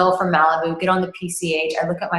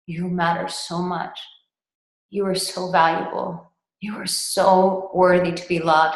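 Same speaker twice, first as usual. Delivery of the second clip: tender reassurance. Retold or imitated. Coach telling a crossed-arms client he is loved, tender. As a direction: pour affection over him gently.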